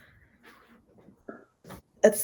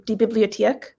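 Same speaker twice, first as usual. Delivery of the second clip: "Bibliothek" said slower, with a clearer O; slow "Bibliothek" down for the listener; careful, purer pronunciation of "Bibliothek". Shown as a demonstration. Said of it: "Slow it down".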